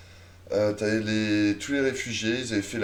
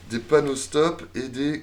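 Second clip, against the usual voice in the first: ordinary talk, nothing marked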